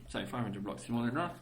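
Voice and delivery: muffled behind a hand; hand over mouth. Real, not acted. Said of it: "just talking with my hand over my mouth".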